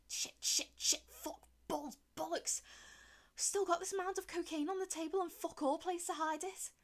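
loud, high panicked swearing. Acted. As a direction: panic under your breath. Panic as Romans approach.

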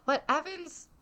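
snide museum-plaque politeness, archly questioning; passive-aggressive politeness. Retold or imitated. Plaque doubting Evans's throne room, passive-aggressive and polite. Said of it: "passive-aggressive politeness".

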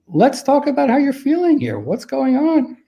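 gently concerned, high-pitched check-in; personable, caring invitation. Shown as a demonstration. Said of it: "be a person like that".

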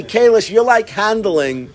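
high, drawn-out scolding; mock mad partner. Mad study partner to his friend, mock scolding. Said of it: "He would get mad at me".

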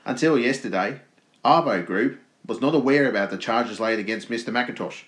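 lightly put-on Australian accent. Podcaster reading company statement to co-host, mock Australian accent. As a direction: read the statement in a broad-ish Aussie accent. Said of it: "do an Australian accent".

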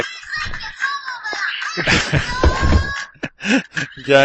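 high, helpless laughter; laughing. Real, not acted. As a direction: crack up in a long laugh. Laughing at the co-host's cheer. (risa aguda y larga)

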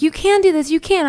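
high-pitched encouraging mom; imitated cheerleading. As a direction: imitate a mom urging her daughter on. Retold mom encouraging her in labor.

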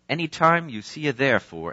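put-on lightly austere British accent, barely there; a hint of Derek Prince's British accent. Preacher quoting his mentor in British accent. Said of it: "in his British accent, very austere".

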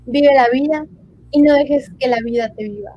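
lightly sultry femme fatale; sensual voice. Shown as a demonstration. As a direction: purr it out seductively, half-laughing. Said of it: "ahora con voz sensual".

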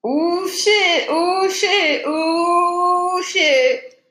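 high, loud, thrilled exclaims; excited. Real, not acted. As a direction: gasp it out, thrilled. Reacting to a twist.

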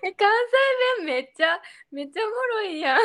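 playful mock Kansai accent; dabbling in Kansai dialect; fake Kansai dialect. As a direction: put on a jokey Kansai accent. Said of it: "エセ関西弁で読めばよかったかな".

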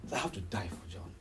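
low, very soft voice of Jesus thinking; hushed inner thought. Acted. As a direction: say it low, as if to yourself. Voicing Jesus' silent thought.

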